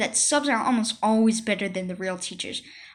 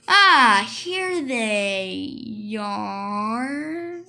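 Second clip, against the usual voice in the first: wailing relief; 2 semitones lower, much slower than usual. Acted. Relief at finding notes.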